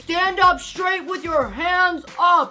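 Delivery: slow megaphone command; over a loudspeaker. Retold or imitated. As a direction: bark it through a helicopter speaker. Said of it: "speaking over the thingy".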